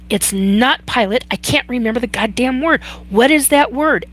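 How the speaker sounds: frustrated at herself. Retold or imitated. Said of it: "I got so angry at myself".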